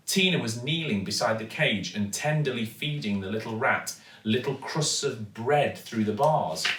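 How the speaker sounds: ordinary delivery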